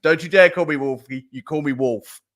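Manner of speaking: lightly imitated American accent, firm warning; mock-indignant country singer with a broad American accent; Wolfie, broad American accent. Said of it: "in a broad American accent".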